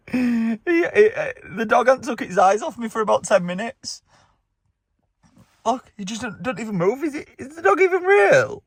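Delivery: high, laughing through the words. Real, not acted. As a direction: giggle it out, barely holding it. Laughing at staring dog.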